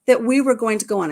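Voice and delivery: thrilled storyteller's amazement; amazed. Real, not acted. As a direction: marvel at the coincidence out loud. Amazed at the boat coincidence.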